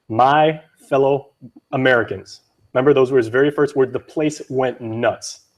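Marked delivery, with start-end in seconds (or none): 0.1-2.4 hint of a slow Arkansas presidential address; badly faked Arkansas politician, drawn out with pauses; Bill Clinton. Host quoting the President's speech to the crowd, lightly faked Arkansas accent. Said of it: "for my Arkansas accent".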